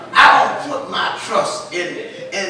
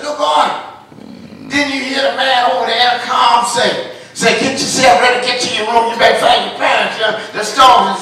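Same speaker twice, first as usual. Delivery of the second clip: put-on urgent man urging boy; 5 dB louder, faster than usual. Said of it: "man come on and said".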